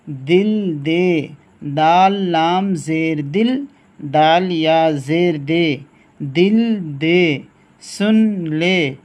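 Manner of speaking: slow, measured sing-song spelling chant, each syllable set apart; slow spelling drill. Shown as a demonstration. Teacher leading the class through spelling, slow rhythmic chant. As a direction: call out each letter like a teacher at the board.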